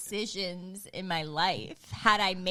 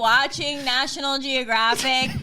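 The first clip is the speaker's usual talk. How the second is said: raised, retold cross-examination; incredulous questioning; 4 semitones higher, 4 dB louder than usual. Wife demanding context from husband, incredulous.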